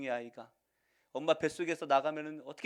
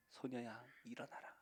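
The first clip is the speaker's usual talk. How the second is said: soft, hushed repeat of the call; quiet, intimate echo; gentle repeat; 13 dB quieter than usual. Acted. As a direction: whisper the command tenderly. Repeat of the command.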